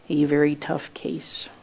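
a soft unvoiced aside; whispered aside. Real, not acted. Preacher confides to congregation in a whisper.

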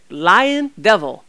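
loud, drawn-out rebuke; rebuking. Acted. Preacher rebuking the devil for lying, loud and slow. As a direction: call out the liar, slow and loud.

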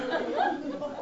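airy high laugh; high breathy giggle. Real, not acted. Preacher still cracking up at the jellyfish memory.

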